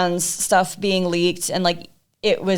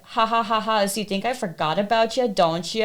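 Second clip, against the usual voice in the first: mocking taunt. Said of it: "mocking me".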